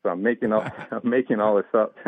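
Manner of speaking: breaking into a laugh mid-sentence; amused laughing. Real, not acted. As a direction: chuckle through the admission. Laughing at his own made-up story.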